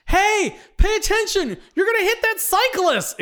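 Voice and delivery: high and loud urgent yell; alarmed warning shout. Acted. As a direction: shout to stop the crash. Steve warns of cyclist.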